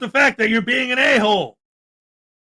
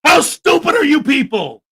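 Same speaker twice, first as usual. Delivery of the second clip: exasperated; 4 semitones higher, 3 dB louder than usual. Real, not acted. Berating viewers who disagree.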